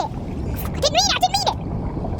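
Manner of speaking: high, slow, squeaky fake apology; hammed-up high plea of innocence; mock pleading. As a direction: whine it out like a guilty cartoon. Apologising after pushing someone.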